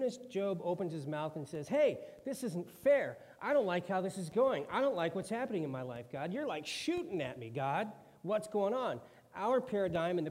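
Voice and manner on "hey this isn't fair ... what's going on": Job's complaint. Acted. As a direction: protest to God as if wronged. Job complaining angrily to God.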